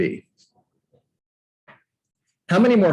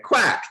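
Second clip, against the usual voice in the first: duck quack; 9 semitones higher than usual. Retold or imitated. Duck quack imitation, high.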